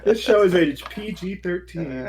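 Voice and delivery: slow rating announcement voice; TV announcer. Pretend. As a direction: read it like a broadcast notice.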